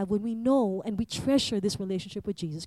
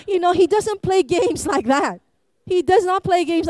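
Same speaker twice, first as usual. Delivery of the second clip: emphatic preaching; 7 semitones higher, 6 dB louder than usual. Real, not acted. Emphatic preaching after the skit.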